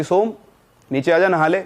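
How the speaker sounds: high call up to the roof. Retold or imitated. Girl calling her brother upstairs to come bathe, loud call.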